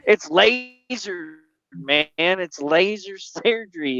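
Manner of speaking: slow, stretched-out insistence; drawn-out exasperated explanation; emphatic explaining. Retold or imitated. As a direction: spell it out slowly for a worrier. Reassuring the scared friend, retold.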